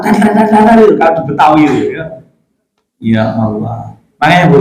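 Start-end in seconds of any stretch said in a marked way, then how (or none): 0.0-0.8 rapid, high "dar" bursts; spoken popping of firecrackers; imitated firecrackers. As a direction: mimic firecrackers going off in quick succession. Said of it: "Jadi seperti petasan".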